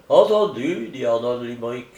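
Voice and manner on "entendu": higher, louder agreement; suppressed joy. Acted. Limerick agrees to leave with his cousin, suppressed joy. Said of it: "en réprimant un tressaillement de joie".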